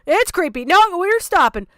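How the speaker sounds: high, loud repeated refusals; alarmed stopping. Real, not acted. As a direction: shut it down loudly, creeped out. Creeped out, stopping the video.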